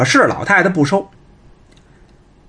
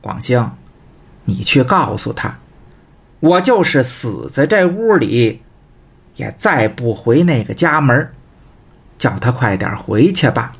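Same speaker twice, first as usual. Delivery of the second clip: put-on old mother; 5 semitones lower than usual. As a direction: voice the stubborn old mother, low and unhurried. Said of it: "紧跟着就听老太太说呀". (低沉缓慢的老太太声音)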